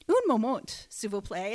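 lightly attempted French accent. Shown as a demonstration. The speaker shows co-hosts her French on request, French accent. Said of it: "Can you do a French accent".

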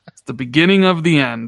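laughing through the doom line. Retold or imitated. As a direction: repeat it while laughing. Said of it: "Speaking of hyperbole".

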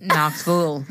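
Knoxville tried as "Knox-vool", the ending rounded to a U; Knoxville with a U sound. Shown as a demonstration. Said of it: "get that U sound in there".

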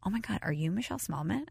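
breathy hushed whisper of a starstruck stranger; whispered fan question. Retold or imitated. Girl at the gym whispering to the host she recognizes, hushed. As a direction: lean in and whisper it, half-disbelieving.

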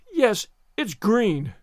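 slow, drawn-out moan of misery. Acted. Anne moaning to Marilla about her green hair. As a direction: moan it, utterly defeated. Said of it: "moaned Anne".

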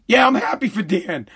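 laughing reply. Retold or imitated. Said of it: "I'm just gonna reply".

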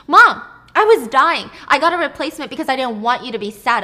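upset. Retold or imitated. Sarah confronts mom, loud.

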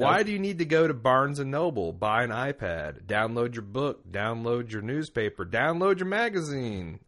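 hammed-up Southern accent quoting the rant; mock Southern accent. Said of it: "a Southern ignorant person's accent".

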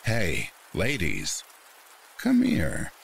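slow catcall that jumps high at the end; calling out. A narrator's reading. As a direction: imitate a man calling to strangers from a car. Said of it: "calls out".

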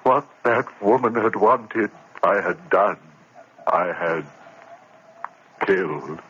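stunned, empty remorse; a touch of numb grief; numb confession. Acted. Narrator numb after killing.

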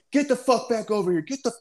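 high, sharp mock yell of an order; retold yelling. Lieutenant ordering Dave back under fire, imitated yell. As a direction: bark it like an angry officer. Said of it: "I starts yelling".

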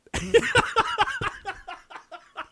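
long, high cackle; high-pitched laugh. Real, not acted. Cracks up revealing the sequel.

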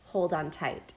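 low, soft words in her ear; whispered. Acted. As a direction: murmur it close and low. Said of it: "he leaned in to whisper in her ear".

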